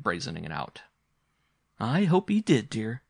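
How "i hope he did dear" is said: higher, louder start, mildly bitter; a touch of bitter amusement. A narrator's reading. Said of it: "with a laugh, but rather bitter".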